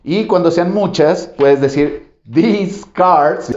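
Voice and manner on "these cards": "these" drawn out slowly with a long ee. Shown as a demonstration. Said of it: "ese sí es más agudo". ("these" lento, con i larga)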